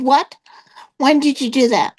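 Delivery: mildly surprised. Retold or imitated. Friend to her on hearing the news, mildly surprised. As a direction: lightly act out a taken-aback question.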